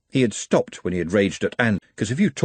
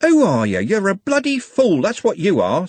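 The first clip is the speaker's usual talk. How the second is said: Trev's furious shout, much higher and louder; screamed; 10 semitones higher, 4 dB louder than usual. Acted. Trev screaming abuse at the luckless Algernon, furious. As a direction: scream it in his face. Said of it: "screamed Trev".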